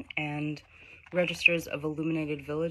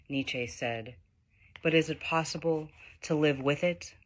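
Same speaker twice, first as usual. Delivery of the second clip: measured poet's recital, phrase by phrase; poetry reading. Acted. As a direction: recite the poem with deliberate pauses. Reads own poem aloud.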